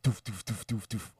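rapid-fire "doof" thuds for slamming locks; imitated door locks. Retelling the chamber doors locking all at once, imitated thuds. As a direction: make short, punchy lock sounds in quick succession.

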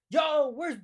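high, urgent mock shouting; imitated yelling. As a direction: call out like someone hunting down the hall. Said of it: "from a bunch of yelling".

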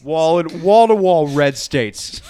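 can't hold the pilot voice for laughing; riffing as the pilot, cracking up mid-boast; laughing mock pilot.

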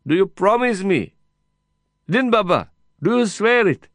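high, loud begging. A narrator's reading. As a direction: beg him over the noise. Heated exchange through prison wire.

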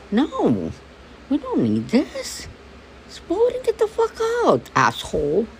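half-shouted vent to the lead person; retold angry outburst. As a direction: let it all out at the voter.

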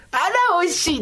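high little cry of delight; lightly acted pleasant surprise; delighted eater. Eater exclaiming between bowls of soba, playful delight. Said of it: "って言いながら".

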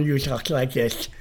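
slightly slurred on "talk like this"; tongue defect imitation. Teacher shows student his speech defect, slurred imitation. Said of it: "Because of your tongue".

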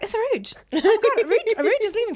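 mock calling out. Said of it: "I was like".

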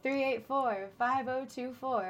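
slow late-night radio patter; lightly put-on late-show voice; late night host. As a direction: draw the number out like a night host. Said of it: "like, a late night vibe".

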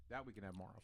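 unvoiced sneaky whisper. Real, not acted. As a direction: whisper so nobody hears. Sneaking more snacks quietly.

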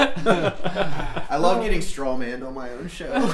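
slow, laughing mock complaint. Real, not acted. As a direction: drag it out while laughing.

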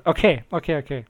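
normal talking voice

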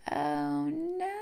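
high, soft drawn-out dismay; mock crushed little cry. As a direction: play a small, deflated high voice. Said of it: "You're, like, crushed".

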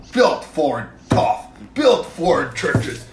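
slow mock commercial slogan. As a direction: drag out the slogan. Repeats truck slogan slowly.

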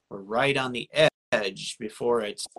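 garbled, glitchy call audio; words breaking up on a bad connection. Real, not acted. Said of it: "Well, you sound all garbled".

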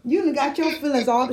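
laughing through a retold tease; amused, high-pitched "girl" breaking into laughter; laughing teasing. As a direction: tease a girlfriend, cracking up. Teasing friend over the medallion date.

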